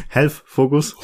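choked up, coughing and laughing; swallowed wrong, coughing; choking cough. Real, not acted. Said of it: "ich hab mich verschluckt".

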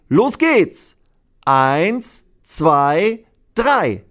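hoch und laut angezählt; zähl die Menge laut ein; rufendes Mädchen. Acted. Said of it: "Dann ruft ein Mädchen". (hohes, lautes Anzählen)

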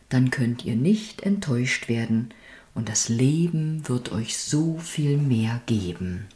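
measured poem reading with pauses between lines; poem recitation. Acted. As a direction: recite a homemade Advent poem, line by line. Reads own Advent poem aloud.

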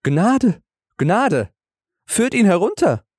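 high desperate cry for mercy; booming warrior king. A narrator's reading. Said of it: "Da rief der König".

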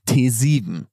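lightly voiced hotline ad announcer; infomercial. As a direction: read the number like a TV ad. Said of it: "So geht die Werbung". (leicht gespielte Werbestimme)

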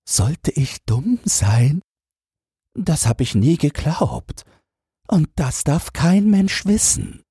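put-on high, fretful old man muttering to himself; an anxious minister fearing he's a fool; panicked old minister. Minister's panicked inner monologue.

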